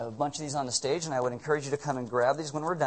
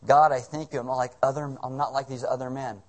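mock Pharisee prayer; 5 dB louder than usual. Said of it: "like a Pharisee and they pray out loud".

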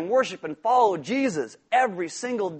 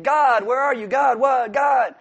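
loud, higher pleading shout at God; mock desperate shout; 6 semitones higher, 7 dB louder, slower than usual. Preacher voicing a believer who feels abandoned, loud pleading shout. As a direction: cry out in frustration.

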